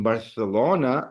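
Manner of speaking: "Barcelona" with a th for the c; Castilian pronunciation. Shown as a demonstration. Telling students what you'll hear in Madrid, Castilian th. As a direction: say "Barcelona" the Spain way, c as th. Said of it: "saying this word here".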